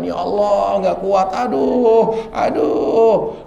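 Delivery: slow, mild mock moan fading to breath; imitated groaning. Cancer patient moaning in pain, lightly imitated. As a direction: sigh out the aduh like a sufferer. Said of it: "ketika kita mengerang kesakitan".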